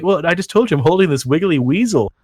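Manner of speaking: mock matter-of-fact troll voice; deadpan prankster. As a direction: calmly escalate the gross prank. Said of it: "I'm like".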